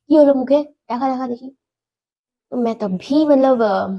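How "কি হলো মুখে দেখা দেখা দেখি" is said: worried dad asking in Bengali; father in Bengali. Retold or imitated. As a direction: coax a look at her mouth, in Bengali. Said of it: "Bengali में बोल रहे हैं". (बंगाली में चिंतित पापा)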